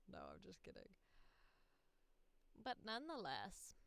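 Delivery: usual speaking voice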